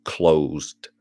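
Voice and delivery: whisper, slow, in hushed dread; slow tense whisper. Retold or imitated. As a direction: breathe it out as if the dad might hear. Hushed retelling of scary moment.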